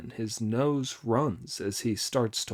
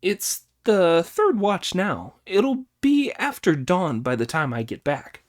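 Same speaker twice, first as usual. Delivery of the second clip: Monkey's voice; 7 semitones higher, 5 dB louder than usual. Acted. Monkey telling the master the hour, higher. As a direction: announce the hour gravely. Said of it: "said Brother Monkey".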